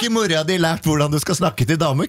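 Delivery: put-on high teen voice turned scolding; mock teen retort. Petter suggesting a comeback in the boys' style, high.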